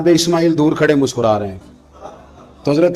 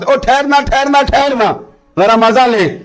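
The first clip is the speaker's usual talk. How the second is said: calling out; 7 semitones higher than usual. Retold or imitated. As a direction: hold the worker back with a call. Onlooker calling out to stop.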